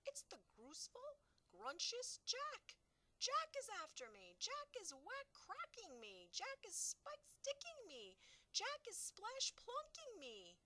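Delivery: high, loud panicked wailing giant; terrified bellowing. A narrator's reading. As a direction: wail in terror, dragging the words. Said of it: "bellowed the flesh lump eater".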